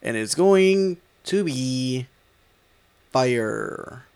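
stiff robot voice. Acted. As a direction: deliver it like a robot. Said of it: "Why are you talking like a robot?".

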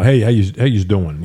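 put-on quick touch of Jersey accent; New Jersey accent. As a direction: greet like a Jersey local. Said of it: "If I spend a week in Jersey".

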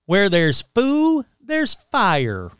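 a cartoon firefighter's grand motto, slowed down; mock declaration. Narrator voicing Smokey's catchphrase as a slow, grand declaration. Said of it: "would often declare".

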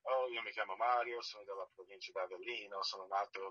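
Italian introduction in standard pronunciation. Retold or imitated. Actor introducing himself to the director in standard Italian. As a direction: say it in proper textbook Italian. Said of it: "Do you speak Italian?".

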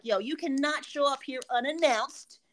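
builds to a shouted threat; angry warning. Retold or imitated. Brother confronting the driver, building to a shout. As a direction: warn him off, ending in a yell.

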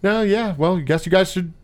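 dry, unbothered backhanded remark; deadpan. Retold or imitated. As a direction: toss it off without caring. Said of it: "deadpan. I love her deadpan".

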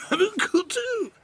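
high, slow nerdy squeak; dorky wannabe. Retold or imitated. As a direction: drag it out like the uncool kid. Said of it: "the one with, like, who's like".

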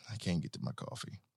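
sulking over the coffee out of reach; quiet. Real, not acted. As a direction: mutter it to yourself. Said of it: "repeated, quieter".

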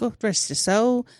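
muddled mixed dialect accent; Nigel's accent. Shown as a demonstration. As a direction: echo it in a put-on accent. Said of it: "that's the same accent I did".

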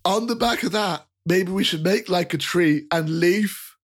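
high, apologetic chubby fellow; jolly rotund man. Acted. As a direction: soothe the startled kid cheerfully. NPC answers with pun.

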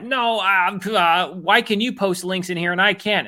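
high, petulant mock whine; whiny commenter. Mocking commenters who can't post links, in a high whine. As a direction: whine like a sulky troll. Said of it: "these people are like".

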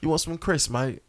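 put-on playful amateur British accent. Joking with co-hosts about British snacks, mock British accent. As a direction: imitate a Brit offering a snack. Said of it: "I just love how British people talk".

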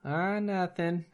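high, soft, drawn-out Minnesota reply; small high Minnesotan voice; Fargo Minnesota accent. Acted. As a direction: answer like a folksy Minnesotan, slowly. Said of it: "That is Fargo".

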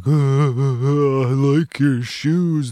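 cowardly lion nervously complimenting Dorothy's shoes; shy stammering lion. Retold or imitated. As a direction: stumble over a timid compliment. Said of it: "look at Dorothy and be like".

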